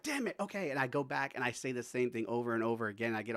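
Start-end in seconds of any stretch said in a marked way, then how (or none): 0.0-0.7 frustrated aside. Retold or imitated. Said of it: "I'm like".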